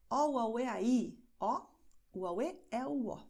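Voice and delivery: vowels run quickly together; quick demonstration. Shown as a demonstration. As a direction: rattle off the vowel sentence. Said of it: "Eu falei bem rapidinho". (rapidinho, vogais encadeadas)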